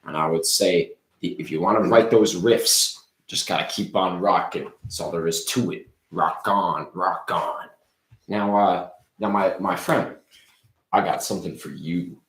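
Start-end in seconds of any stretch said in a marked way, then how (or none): 0.0-7.7 loud hyped rock star pitch; rocker showman. Acted. Ricky answering fans, loud rocker bravado. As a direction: sell it like a rock showman on stage.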